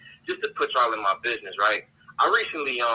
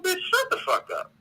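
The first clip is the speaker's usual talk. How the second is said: retold insult.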